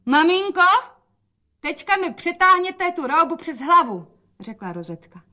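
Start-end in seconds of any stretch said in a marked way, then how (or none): 0.0-4.1 put-on much higher, louder girl's call; a bright girlish plea up high; young daughter's voice. Rozetka calls her mother for help in a much higher girl's voice.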